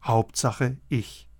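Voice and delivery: Hauptsache, ich fading to almost nothing; quiet. Acted. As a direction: let Hauptsache, ich drop to a hush. Repeated list, final soft take.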